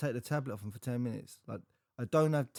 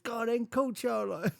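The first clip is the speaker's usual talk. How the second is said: teasing dare; 10 semitones higher, 3 dB louder than usual. Retold or imitated. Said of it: "I said".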